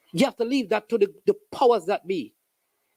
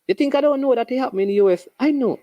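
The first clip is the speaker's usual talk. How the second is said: sarcastic; 4 semitones higher, 4 dB louder, faster than usual. Acted. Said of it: "that was a little bit of sarcasm".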